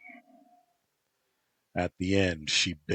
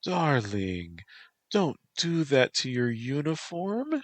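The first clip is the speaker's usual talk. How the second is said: Black Fan, false sweetness; 9 semitones higher, 4 dB louder than usual. Acted. Black Fan feigning concern for her boyfriend, high syrupy voice. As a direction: fake sympathy, sugar-high.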